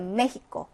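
메히코 with a strong h in the middle; 메히코 with a firm breathy h for the x. Shown as a demonstration. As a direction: say 메히코 as me-hee-ko. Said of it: "강한 히읗 발음이 나게".

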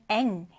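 "eng" ending in a velar ng; ng sound. Shown as a demonstration. Teacher explaining a phonetic symbol, "eng" said with a velar ng. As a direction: close "eng" on the back-of-tongue ng. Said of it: "꼬리가 긴 N처럼 생긴 발음 기호".

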